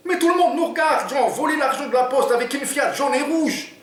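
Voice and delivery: very high, fretful Oumar voice; worried sidekick. Acted. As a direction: complain that everyone is staring. Oumar complains about the car.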